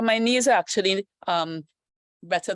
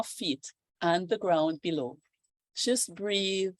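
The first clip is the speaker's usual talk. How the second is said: guided meditation. Acted. Yoga teacher guiding students into calm, meditation voice. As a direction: ease them into breathing and grounding.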